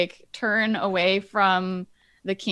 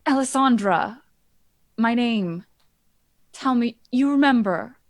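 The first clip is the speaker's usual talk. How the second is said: pleading mother; 3 semitones higher, 3 dB louder than usual. Acted. Queen begs son to remember.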